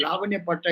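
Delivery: లావణ్య పట్టా as people mistakenly say it, with "-nya"; common mispronunciation. Retold or imitated. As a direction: quote the mistaken లావణ్య, like the name Lavanya. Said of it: "these people pronounce it as".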